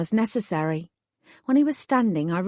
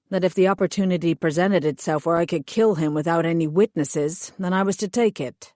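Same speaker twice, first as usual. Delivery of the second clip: matter-of-fact. Acted. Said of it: "he continued matter-of-factly".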